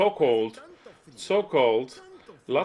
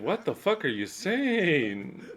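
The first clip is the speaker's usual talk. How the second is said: mock incredulous question, drawn out and higher; Leslie; 5 semitones higher, slower than usual. Leslie reacting to the speaker's wild interpretation, mock disbelief. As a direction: stretch it out in playful disbelief. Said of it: "I can see Leslie's face when saying".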